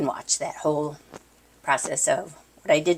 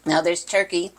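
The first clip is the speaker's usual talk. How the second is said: talking with a mouth full; words round a bite of food. Real, not acted. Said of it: "talking with my mouth full".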